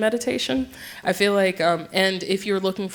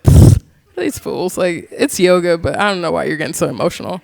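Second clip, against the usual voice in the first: dismissive scoff; 2 semitones lower, 6 dB louder than usual. Retold or imitated. Mocking others crying at yoga.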